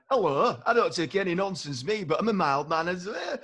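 a hint of a plain-speaking northern ad man; mock northern advert voice. Co-host mocks northern voices in modern adverts, a light northern send-up. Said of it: "Northerners in adverts now are this kind of".

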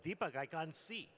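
mildly alarmed, imitating his younger self. Boy tells his brother he has gone blind, mildly alarmed.

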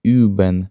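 üben with a rounded German ü; German word demo. Shown as a demonstration. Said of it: "Це слово вимовляється як". (üben з німецьким ü)

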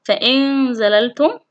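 held nasal noon in فإن زللتم; ikhfa demonstration. Shown as a demonstration. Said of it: "هي في حالة الكلمتين". (إخفاء النون بغنّة في فإن زللتم)

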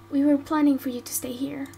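calm her gently; gentle reassurance. Acted. Gently tells plan.

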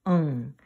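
응 ending in a sustained "ng"; final ieung sound. Shown as a demonstration. Teacher recapping ieung in last position, final ng. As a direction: let 응 fall low and close on ng.

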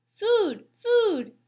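very high, loud chick squeal; hungry gosling. A narrator's reading. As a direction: peep the demand like a baby bird. Hungry gosling demands food.

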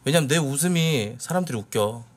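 ordinary talk, nothing marked

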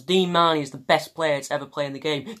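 a light impression of the YouTuber hyping his favourite player; lightly voiced fan praising Dean Marney; imitating Vizza. Vlogger imitating Vizza hyping Dean Marney, lightly done. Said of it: "here's an impression of lads".

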